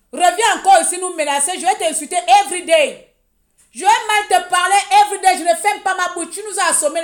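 loud, high-pitched tirade; angry rant. Real, not acted. Warning a critic who dares come back, angry rant. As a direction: raise voice and pitch, threatening insults. Threatens to insult whoever menaces them.

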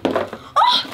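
high breathless "oh"; a thrilled gasp; gasp of delight. Real, not acted. Discovering tiny lipsticks.

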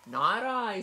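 high, loud little pig squeal; squealing piglet voice. A narrator's reading. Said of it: "squealed the pig".

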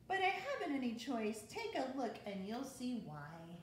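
lively storybook read-aloud; bouncy rhyming picture-book narration; reading to children. A narrator's reading. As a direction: read it like bedtime story time for kids.

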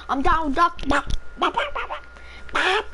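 squawky cartoon duck talk, slow. Shown as a demonstration. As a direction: quack the words like a duck. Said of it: "I'm the only one that can do the duck sound".

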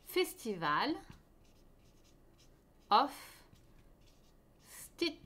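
English title split by long pauses; word-by-word dictation. Shown as a demonstration. Host writing the shawl's name for viewers, spaced-out dictation. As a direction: say Festival, of, Stitches one at a time, as if writing it out. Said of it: "Je vais vous l'écrire".

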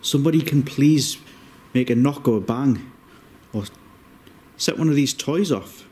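calling out. Real, not acted. Calling out to spirits.

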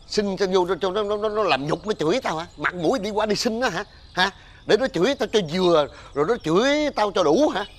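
high, stammering indignant rant; fierce scolding. Acted. Father refusing to beg fruit from the neighbour who insults him, fierce. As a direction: rail at the suggestion, repeating words. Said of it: "tía làm gì dữ à?".

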